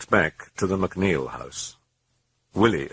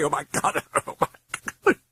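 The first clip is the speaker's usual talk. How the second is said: sobbing. A narrator's reading.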